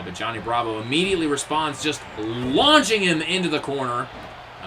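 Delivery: normal talking voice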